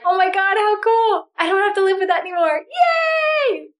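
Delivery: joyful relief. Retold or imitated. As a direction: cheer like a weight just lifted. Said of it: "And then you're like".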